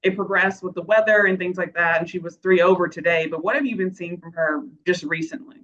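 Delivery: slight lisp from a new retainer; wearing a retainer. Real, not acted. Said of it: "Sorry if I have a lisp. I just got a new retainer".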